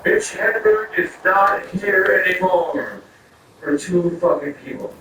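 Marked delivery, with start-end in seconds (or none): 0.0-3.0 drawn-out announcement, climbing in pitch; club announcer. Retold or imitated. Club staff on the microphone to a crowd, mock announcer. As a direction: announce it slowly to the whole showroom. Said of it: "get on the microphone and go".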